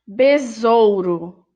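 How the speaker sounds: "besouro" read slowly and clearly. Shown as a demonstration. Teacher reading "besouro" to the class, slowly. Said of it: "O encontro vocálico".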